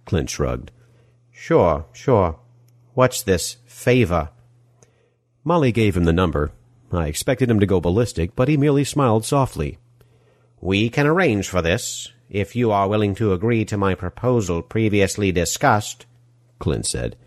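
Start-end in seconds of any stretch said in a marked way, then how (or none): 1.3-4.3 put-on smarmy European movie-villain accent; oily villain accent, gushing welcome; Die Hard villain accent. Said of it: "accent sounding like the villain of a Die Hard film". 10.6-16.1 put-on measured European villain accent; Die Hard villain accent. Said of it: "accent sounding like the villain of a Die Hard film".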